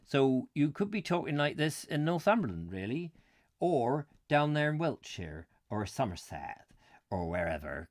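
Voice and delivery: lightly put-on English rural accent; a hint of a country bumpkin accent. Shown as a demonstration. Vlogger showing viewers his all-purpose rural voice, light bumpkin accent. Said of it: "country bumpkins accent for anywhere".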